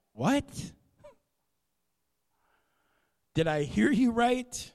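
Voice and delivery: high, startled disbelief; a lightly voiced young woman who can't believe her ears; Miriam stunned. Miriam hearing the angel, high and incredulous. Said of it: "hearing that for the first time if you're Miriam".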